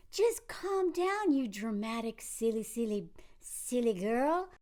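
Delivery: slow, soft, patronizing hush; mock condescending. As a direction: talk down to her slowly. Mocking his condescending calming.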